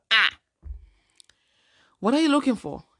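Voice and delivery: gasp, then ask in shock; surprised outburst. Real, not acted. Startled reading profile.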